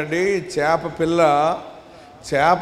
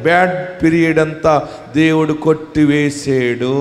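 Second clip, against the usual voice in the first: slow consoling preaching; slower than usual. Acted. Preacher assuring the sufferer the bad time is over, slow and consoling. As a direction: lay it down gently like a blessing.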